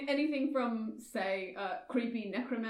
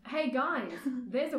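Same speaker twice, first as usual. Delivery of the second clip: bright squeaky sing-song welcome; 2 semitones higher than usual. Acted. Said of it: "sorry, it's my character voice".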